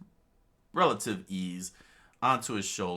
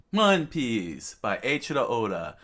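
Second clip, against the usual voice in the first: louder, higher announcer's opening; title announcement; 4 semitones higher, 7 dB louder than usual. Real, not acted. Reader opening the next chapter, raised announcer voice. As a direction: proclaim the title to open a chapter.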